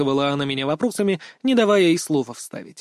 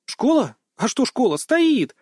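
put-on higher, flippant girl voice; carefree schoolgirl; 8 semitones higher, slower than usual. A narrator's reading. Girl shrugging off question about school, flippant. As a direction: toss it off like a cheeky teen.

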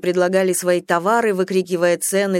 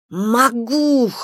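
sharp angry retort, higher and louder; angry hiss; 5 semitones higher, 3 dB louder than usual. Acted. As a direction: bite back the word. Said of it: "прошипела она".

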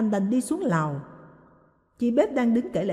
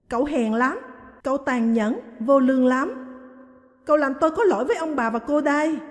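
crying out; 4 semitones higher than usual. Acted. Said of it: "Huệ khóc lớn".

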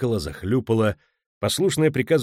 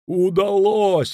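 high, loud, drawn-out triumph; exultant cry; jubilant yell; 10 semitones higher, 6 dB louder, much slower than usual. A narrator's reading. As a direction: shout it in victory, stretching it out. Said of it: "орал Кобин".

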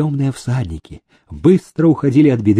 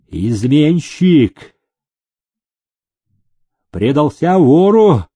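angry shout; slower than usual. A narrator's reading. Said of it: "сердито закричал Гагрин".

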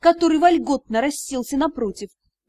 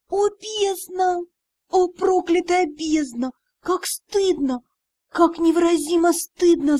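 despairing; 4 semitones higher, slower than usual. Acted. Heroine despairs over shame.

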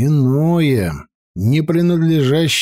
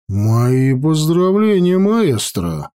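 slow, deliberate congratulations; slowly; slower than usual. Acted. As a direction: say it slowly, weighing it. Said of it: "медленно сказал некромант".

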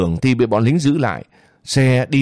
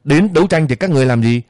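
angry retort; 3 semitones higher, much faster than usual. Acted. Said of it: "Bà Sáu giận run lên".

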